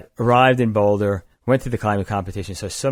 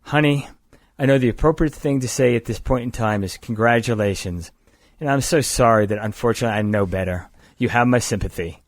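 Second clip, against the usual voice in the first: imitating a Southern woman's accent; a touch of Southern accent in mock condolence. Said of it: "with that southern accent she has".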